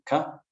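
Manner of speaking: "Cover" split in two, COV high, then a short gap before ER; stress on first syllable. Shown as a demonstration. Teacher demonstrating the beginning stress, "Cover" in split syllables. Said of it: "it's at the beginning".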